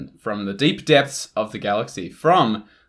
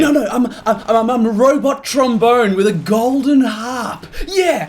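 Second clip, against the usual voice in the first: higher, laughing robot trombone voice; silly robot character; 8 semitones higher, 4 dB louder than usual. Acted. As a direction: play a goofy robot, giggling. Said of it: "get in character and act like a weirdo".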